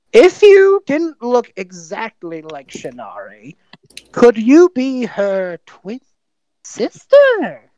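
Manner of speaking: slow, drawn-out question rising high at the end; slow mock-sincere question. Elian asking the doppelganger, slowly and pointedly. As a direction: spell it out slowly like a riddle. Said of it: "Elian just looks to the doppelganger and just goes".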